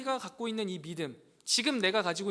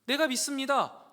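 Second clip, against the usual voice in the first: loud cry of faith, raised; 3 semitones higher, 8 dB louder than usual. Acted. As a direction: call out to the Lord with all you have. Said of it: "소리쳐요". (외치듯 크게 "내가 믿습니다")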